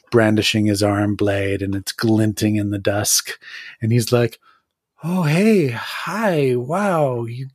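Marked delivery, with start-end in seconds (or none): 5.0-7.5 nervous minion. Acted. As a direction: play it over-friendly to an intimidating visitor. GM voices a startled minion.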